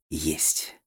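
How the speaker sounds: soft, disbelieving whisper. A narrator's reading. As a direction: breathe it out quietly. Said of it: "прошептал я".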